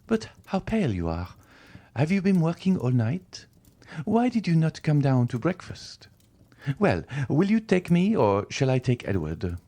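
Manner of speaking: a fretful wife pressing her husband; rising alarm, question after question; anxious wife. A narrator's reading.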